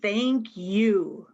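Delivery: warmly stressed "Thank you"; "Thank you" said slowly with a falling close; magic words. Shown as a demonstration. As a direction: lean on "Thank" and let it fall. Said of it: "these two magic words are thank".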